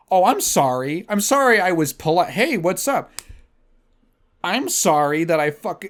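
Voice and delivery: overdone fake politeness; sarcastic apology. Mocking apology to Tinder women, sarcastic. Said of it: "sarcastic apology to matches".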